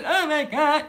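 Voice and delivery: quick worried "Oh my God"; anxious oh my God. Shown as a demonstration. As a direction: let it slip out stressed. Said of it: "Do I revert back to".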